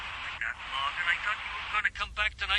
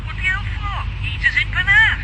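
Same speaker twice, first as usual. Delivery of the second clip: higher, louder disbelieving what the hell; can't believe the change of plan; incredulous outburst; 8 semitones higher, 9 dB louder than usual. Acted. Partner on the phone learning Morgan skips Penarth, incredulous.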